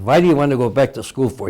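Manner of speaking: lightly imitated German accent; a touch of German accent in a retold quote. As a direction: put on a mild German accent. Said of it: "said to me in his German accent".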